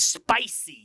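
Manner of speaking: SPICY with a hissed, stretched start. Shown as a demonstration. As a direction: linger on the "sp" of "spicy". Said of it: "having a little bit of spicy".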